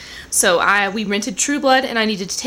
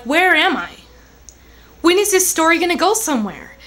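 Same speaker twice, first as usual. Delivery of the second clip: bored exasperation; 6 semitones higher than usual. Retold or imitated. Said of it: "I was just like".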